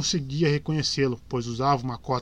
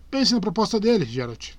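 ironic; 6 semitones higher than usual. A narrator's reading. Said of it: "falou Jaskier com ironia".

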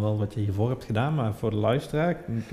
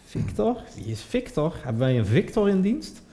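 puzzled listener; 7 semitones higher than usual. Retold or imitated. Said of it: "voor degene die nu denkt".

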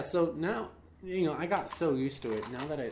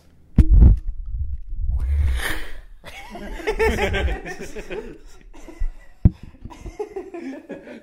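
sonic boom; 10 semitones higher, 11 dB louder than usual. Pretend. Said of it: "your impression of a fighter jet".

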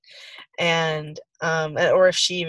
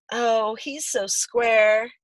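mocking; much slower than usual. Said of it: "they used to say".

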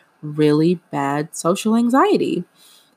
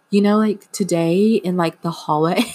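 put-on old teen girly voice; 3 semitones higher than usual. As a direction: replay your younger self gushing about a crush. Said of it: "I'm making my voice like that".

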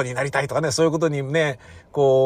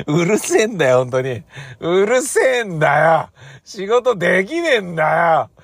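mock angry rant; 2 semitones higher, 3 dB louder than usual. Real, not acted. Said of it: "ranting at neighbors".

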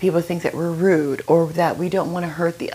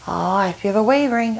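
mock pushy glee; 3 semitones higher than usual. Pushy person senses a wavering no, teasing. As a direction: savor the other person's weakness, lightly.

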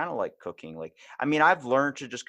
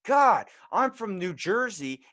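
mock Jersey woman; 9 semitones higher, 4 dB louder than usual. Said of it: "She's like".

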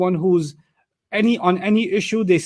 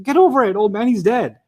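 higher, impatient mock dismissal; dismissive brush-off; 4 semitones higher than usual. Relatives waving away their old father's talk, dismissive. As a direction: brush him off, pitch jumping up at the start.

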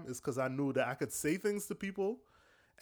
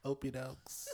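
laughing; 10 dB quieter, slower than usual. Real, not acted. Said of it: "Why am I yelling?".

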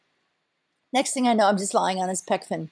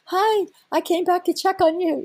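very high, gushing whale voice; cutesy imitated whale, pitched way up; nuzzling whale greeting; 11 semitones higher than usual. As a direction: squeal the greeting as an affectionate whale. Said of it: "He's nuzzling me like".

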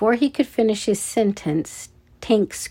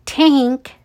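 loud, higher-pitched summons; calling out; 5 semitones higher, 5 dB louder than usual. A narrator's reading. Red-headed guard summons Tank, calling out. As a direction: call sharply for backup. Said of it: "the red-headed guard called".

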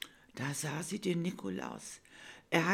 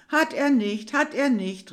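put-on higher, much louder taunting child; defiant call; 9 semitones higher, 11 dB louder than usual. Bella calling back to her teasing brother, loud and defiant. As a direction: call it back cheekily, sticking out your tongue. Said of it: "rief Bella".

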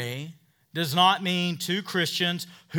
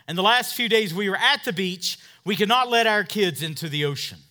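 louder and higher, hammering each phrase; full-force preaching; 5 semitones higher, 8 dB louder than usual. Acted.

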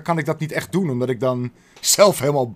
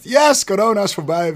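excited announcement; 7 semitones higher, 6 dB louder than usual. Retold or imitated. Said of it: "ik open die fucking video letterlijk met".

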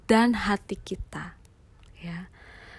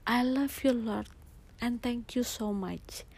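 heartfelt; 6 dB quieter than usual. Retold or imitated. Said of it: "saya sayang banget sama Tuhan".

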